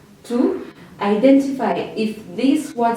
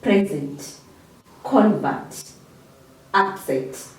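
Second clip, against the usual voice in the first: "Present, convert, upset" as PRE-zent, CON-vert, UP-set; stress on first syllable; slower than usual. Shown as a demonstration. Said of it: "emphasis on the first syllable of the word".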